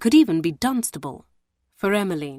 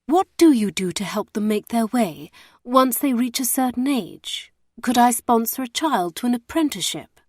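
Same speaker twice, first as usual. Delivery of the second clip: a hint of a pious, earnest lady; eager benefactress; 5 semitones higher than usual. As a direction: lean in, playing the eager do-gooder. Emmeline plays eager benefactress.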